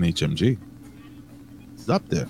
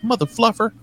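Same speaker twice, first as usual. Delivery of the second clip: mock cutesy swear; 13 semitones higher than usual. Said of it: "She's like".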